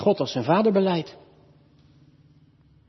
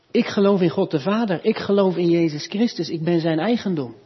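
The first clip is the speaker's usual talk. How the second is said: firm, raised confession of faith; professing faith; 4 semitones higher than usual. Retold or imitated. Confessing members declaring their faith, voiced as a firm profession. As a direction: declare it as a believer's creed. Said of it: "Die zeggen daarmee".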